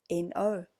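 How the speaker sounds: "N O" said as two separate letters; spelled out. Shown as a demonstration. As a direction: spell "N O" out, slowly. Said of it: "learning no".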